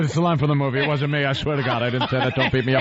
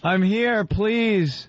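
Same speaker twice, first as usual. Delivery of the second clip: high pleading voice; 9 semitones higher, much slower than usual. Pretend. Joking about feeling dead.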